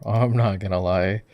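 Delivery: amused laughing admission. Real, not acted. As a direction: chuckle into a candid confession. Laughing at lopsided score.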